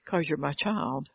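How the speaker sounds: slow, matter-of-fact reply as God; lightly voiced God, unhurried; God's answer. God answering the complaining child, slow calm reply.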